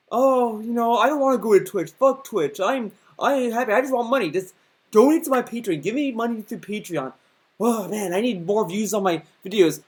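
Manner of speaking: sneering impression of a streamer begging for money, hammed up; mocking greedy streamer. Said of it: "Let's replace parents with viewers and replace the toy with money".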